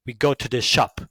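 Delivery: English accent. Shown as a demonstration. Demonstrating accents to listeners, English accent. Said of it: "do an accent of English people".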